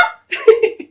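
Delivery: a loud, high burst of laughter; real scornful laugh; short laugh. Real, not acted. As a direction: laugh off the silence. Laughs after rhetorical point.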